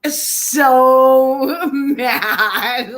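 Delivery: words breaking into real laughter; giggling helplessly mid-sentence; laughing. Real, not acted. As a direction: laugh through the end of it. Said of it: "I'm just killing myself laughing".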